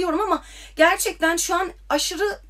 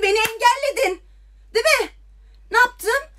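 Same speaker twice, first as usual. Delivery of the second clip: near tears; 6 semitones higher than usual. Real, not acted. Hurt confrontation, voice breaking.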